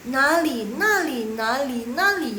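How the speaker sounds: "Nali" chanted over and over; insistent teacher repeating "nali"; repeated drill. Shown as a demonstration. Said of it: "langsung ulang-ulang terus".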